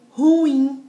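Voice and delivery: "ruim" as ru-IM, two syllables; stress on second syllable. Shown as a demonstration. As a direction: land firmly on the "im" of "ruim". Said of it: "Essa é a tonicidade".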